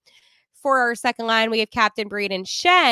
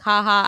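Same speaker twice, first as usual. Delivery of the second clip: short spoken ha-ha; mock laugh; 4 dB louder than usual. Shown as a demonstration. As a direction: demonstrate a fake, emphatic laugh. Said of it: "I'm not laughing like".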